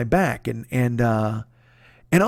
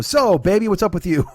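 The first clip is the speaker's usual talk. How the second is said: lightly imitated buddy check-in, higher opening; Jeff; 4 semitones higher than usual. Buddy turning the talk to his friend, lightly mimicked check-in. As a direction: lift "So, baby" in a mock chummy greeting. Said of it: "And then he'll go".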